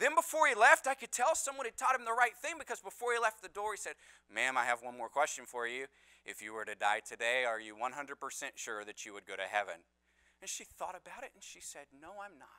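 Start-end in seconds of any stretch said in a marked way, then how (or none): 4.3-9.8 mock monotone, flat, passionless, much lower, quieter. Retelling how a young man at a door asked a woman about heaven: mimicking monotone, passionless voice. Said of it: "in the most monotone, passionless way".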